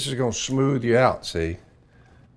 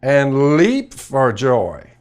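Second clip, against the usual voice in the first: fervent proclamation; 3 semitones higher, 8 dB louder, much slower than usual. Acted. Reciting scripture with fervour.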